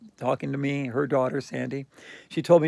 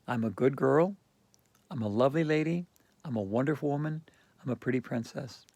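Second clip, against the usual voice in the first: inner voice; 5 dB quieter than usual. Retold or imitated. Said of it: "That's what Moana spoke to me".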